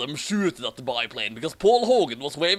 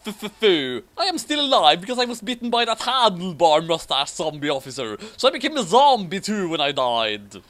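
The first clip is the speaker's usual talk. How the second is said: zombie head; 3 semitones higher, 4 dB louder than usual. Acted. Severed zombie head speaks.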